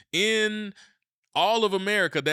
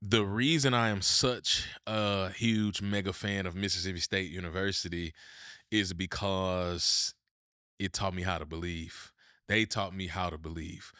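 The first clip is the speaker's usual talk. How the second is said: tone shift, solemn; 4 semitones lower, 3 dB quieter than usual. Real, not acted. Telling the audience why the team made him believe, hushed and solemn. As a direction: drop into a heavy, heartfelt hush. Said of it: "watch my tone shift here".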